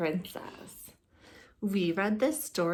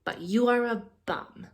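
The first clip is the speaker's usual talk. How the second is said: sassy put-down; 4 dB louder than usual. Acted. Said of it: "Elizabeth said".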